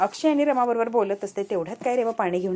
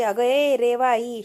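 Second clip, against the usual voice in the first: slow, drawn-out call; mock yell; much slower than usual. Child calls out for attention, drawn-out mock yell. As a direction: imitate a yell, stretching the name. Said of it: "जोरात किंचाळते".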